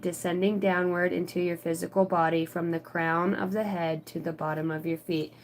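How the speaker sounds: measured spiritual reading; read-aloud card message. Acted.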